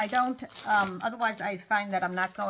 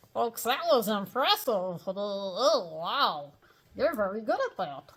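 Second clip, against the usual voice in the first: dopey ventriloquist puppet voice; Mortimer Snerd; slower than usual. Acted. Ventriloquist dummy Mortimer talks.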